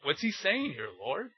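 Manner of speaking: small hushed voice, pleading to the Lord; a mock helpless plea in a hushed tone; mock panicked prayer. Preacher acting out a reader begging the Lord, hushed.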